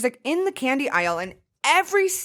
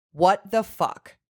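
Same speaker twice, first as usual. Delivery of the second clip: amazed disbelief; much slower than usual. Retold or imitated. Retold reaction to tasting candy.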